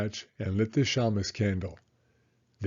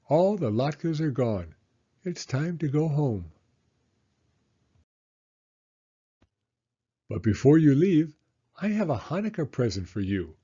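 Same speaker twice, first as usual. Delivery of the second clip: Baba Brena; 3 semitones higher than usual. Acted. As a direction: play the kindly old hostess, pitched up.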